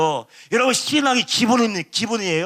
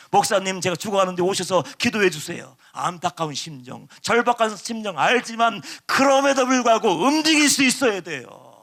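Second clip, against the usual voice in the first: ordinary talk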